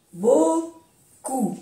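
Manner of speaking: "Beaucoup" with no P sounded at the end; silent final P. Shown as a demonstration. Teacher showing learners the silent P, "Beaucoup" ending on oo. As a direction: end "Beaucoup" on an open oo vowel. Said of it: "No se pronuncia la P".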